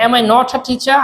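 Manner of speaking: "not a" joined as "notha" inside the question; linked collocation. Shown as a demonstration. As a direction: link "not a" with a lightly aspirated t. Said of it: "এই not a একসাথে করব". ("not a" একসাথে "নঠা" উচ্চারণ)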